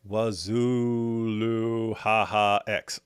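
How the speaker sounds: slow, booming trailer-announcer call; mock voiceover. Streamer imitating the voiceover, slow booming. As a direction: stretch it out like a hammed-up trailer. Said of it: "Sounds like".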